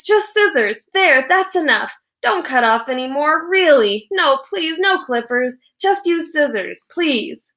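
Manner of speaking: put-on frantic boy begging the barber; pleading near-yell. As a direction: beg the barber over and over. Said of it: "practically yelled at the man".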